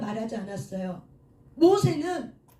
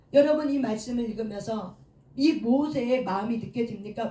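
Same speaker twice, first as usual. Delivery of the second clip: ordinary talk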